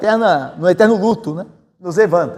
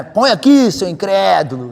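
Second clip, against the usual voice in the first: sharp, scolding push on Põe aqui; harsh rebuke; slower than usual. Shown as a demonstration. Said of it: "não creio que Jesus disse aquilo de maneira dura".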